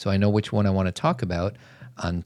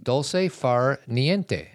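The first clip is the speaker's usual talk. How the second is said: slowly savoured Italian phrase; drawn-out Italian pronunciation, higher; Italian accent; 4 semitones higher, much slower than usual. Pretend. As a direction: roll it out with an Italian lilt. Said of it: "I don't have an Italian accent".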